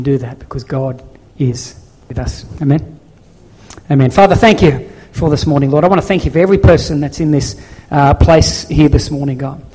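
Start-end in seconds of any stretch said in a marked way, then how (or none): 4.1-9.6 louder, fervent pastor's prayer; closing prayer. Acted. Pastor praying over the congregation at service end, fervent prayer. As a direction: pray over the church with passion.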